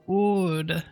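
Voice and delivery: put-on high, slow warning old sage; old man voice. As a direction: play an old man hinting at danger. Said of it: "love this old man voice".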